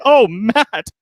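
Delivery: high, laughing mock Rob voice; teasing the co-host by voicing his reply; imitating Rob. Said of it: "so you can say".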